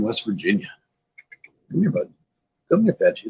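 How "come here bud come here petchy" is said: high coaxing pet-talk; coaxing the cat. Real, not acted. Streamer coaxing his cat toward the camera, high pet-talk. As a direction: call the cat sweetly, up high.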